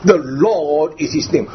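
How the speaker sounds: "Lord" held long and firm; emphatic, lengthened "Lord"; emphasis on Lord. Shown as a demonstration. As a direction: press on "Lord" and stretch it. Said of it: "Why the emphasis, emphasis there?".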